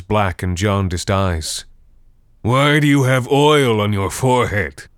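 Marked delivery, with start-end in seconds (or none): 2.4-4.9 higher, louder creature question; suddenly unsettled monster; startled undead. A narrator's reading. Draugr puzzled.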